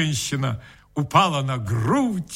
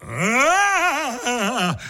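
sudden higher raging cry; a wild «а-а-а» of fury; furious cry; 7 semitones higher than usual. A narrator's reading. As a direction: burst out in a fit of rage. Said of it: "вскричал я в неожиданном порыве бешенства".

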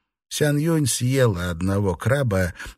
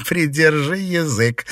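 laughing; 7 semitones higher than usual. A narrator's reading. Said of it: "засмеялась Фэнзе".

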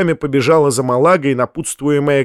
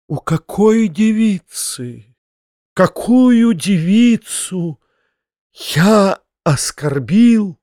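high, slow, drawn-out puzzlement; bewildered; 7 semitones higher, much slower than usual. A narrator's reading. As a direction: ask as if you had forgotten everything. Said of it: "проговорил Фома в недоумении".

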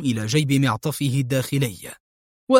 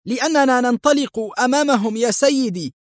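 hesitant; 9 semitones higher than usual. Acted. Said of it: "أجابه السائق في تردد".

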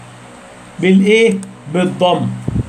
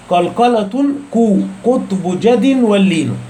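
slow, measured recitation of a poem line; slow verse recital; slower than usual. Shown as a demonstration. Teacher reciting a line of the poem to students, slow and measured. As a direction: recite the verse slowly, each word drawn out.

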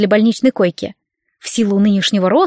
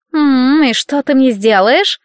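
slow, teasing, higher voice; mocking aunt; 4 semitones higher, 3 dB louder, slower than usual. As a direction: dare her, drawing it out. Aunt mocking her niece.

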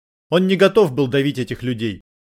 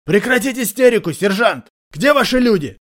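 higher, louder barked order; yelling; 8 semitones higher, 3 dB louder than usual. A narrator's reading. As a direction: snap him out of hysteria with a yell. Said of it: "заорал". (громкий окрик, выше обычного)

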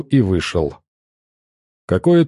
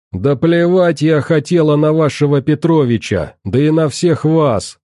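snarling rage; 5 semitones higher than usual. Acted. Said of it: "вызверилась женщина".

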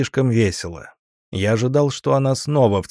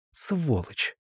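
hissed insult, much softer; angry hiss; 5 semitones higher, 8 dB quieter than usual. A narrator's reading. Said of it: "прошипела она". (сердитое тихое шипение)

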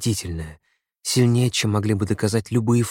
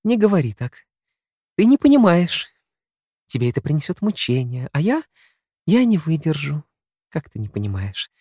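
much higher, urgent, near breaking; anguished pleading; 7 semitones higher, 3 dB louder than usual. A narrator's reading. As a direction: plead with rising pain. Her anguished pleading continues.

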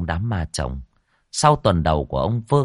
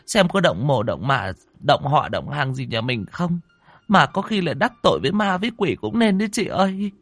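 consoling; 8 semitones higher than usual. Acted. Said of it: "giữ chị lại mà vỗ về".

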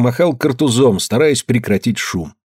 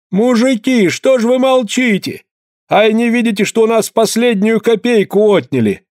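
much higher, lamenting widow's voice; widow's cry; 11 semitones higher than usual. A narrator's reading. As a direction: plead with the men, indignant. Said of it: "прогласила вдова Устинья Пьянкова".

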